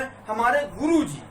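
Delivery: slow respectful हमारे गुरु जी with long रु; a hint of a reverent professor; professor's address. Teacher imitating a professor saying guru ji. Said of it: "एक professor इस प्रकार से बोले".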